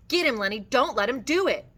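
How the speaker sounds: yelling. A narrator's reading. George urging Lenny to fight back, yelling loudly. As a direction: yell it as an urgent order.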